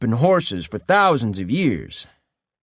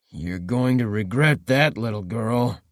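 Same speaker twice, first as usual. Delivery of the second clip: slow, understated threatening growl; slow menace, barely raised; mild growl; 2 semitones lower than usual. Acted. Wounded captor mildly growling a threat at the girl. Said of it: "he growled".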